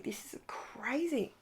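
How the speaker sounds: hushed whisper, almost no voice. Real, not acted. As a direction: breathe it out in a whisper.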